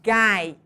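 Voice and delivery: "gai" said alone, loud and firm; stressed syllable. Shown as a demonstration. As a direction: isolate "gai" as the strong syllable. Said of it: "a sílaba mais forte".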